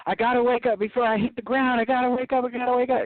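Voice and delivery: retold panic. Recalling a falling dream, mock panic. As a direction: hurry the lines out in half-acted panic. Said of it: "uh, panic".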